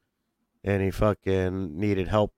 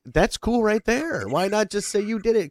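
quoting himself; 10 semitones higher than usual. Retold or imitated. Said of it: "I'm like".

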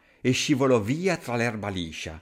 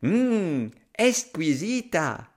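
higher, slow, savouring delight; contented mouse; 3 semitones higher, slower than usual. Acted. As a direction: relish every word. Mouse enjoys a nut.

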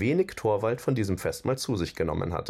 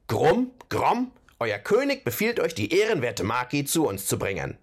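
Trollkönig; 4 semitones higher than usual. Acted. Trollkönig befiehlt den Trollen.

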